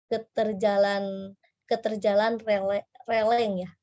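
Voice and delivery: lereng slipped to releng; swapping the r and l in lereng; says l for r. Real, not acted. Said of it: "Aduh, saya cadel banget".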